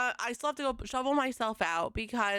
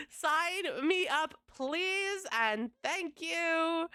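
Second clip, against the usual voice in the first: excited; 5 semitones higher, much slower than usual. Real, not acted. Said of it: "one good thing has been happening".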